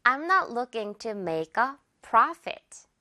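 very slow, stress on not; slow model sentence. Shown as a demonstration. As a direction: spell out the sentence slowly. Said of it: "난 근데 그러려는 게 아니야".

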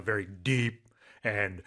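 deep, resonant voice that carries through a room; demonstrating a big deep voice; booming voice. Shown as a demonstration. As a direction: drop low and project like an announcer. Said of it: "deep and, uh, loud voice like this".

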